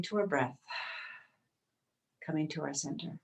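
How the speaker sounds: unhurried yoga teacher, long pauses between phrases; spacious, breath-led instruction; guided yoga meditation. Real, not acted. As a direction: guide them gently into breath and stretch. Leads yoga breathing practice.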